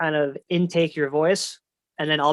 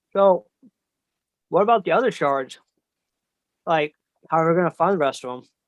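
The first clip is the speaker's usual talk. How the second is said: muffled voice, talking through a mouthful of food; 2 semitones higher, 3 dB louder than usual. Player speaking as Danny, asking about the other shards, talking with mouth full. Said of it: "Danny has a mouthful of food and he goes".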